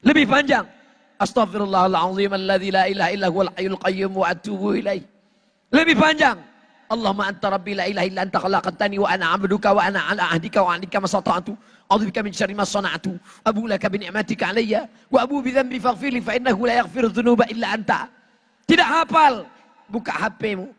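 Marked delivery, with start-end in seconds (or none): 1.2-5.1 fast, even recital from memory; rapid prayer recitation. Shown as a demonstration. Preacher demonstrating a longer istighfar, rapid recitation. 6.9-18.1 very fast, unbroken recital; rapid prayer recitation. Shown as a demonstration. Preacher demonstrating the longest istighfar, rapid recitation.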